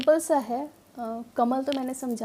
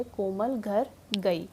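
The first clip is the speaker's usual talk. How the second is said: slow reading; 3 semitones lower, 4 dB quieter, much slower than usual. Shown as a demonstration. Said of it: "मान लीजिए sentence ऐसे करके".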